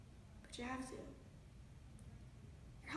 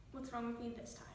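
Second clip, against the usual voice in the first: subdued self-questioning; 6 dB quieter than usual. Acted. Self-questioning repeated, lower and softer.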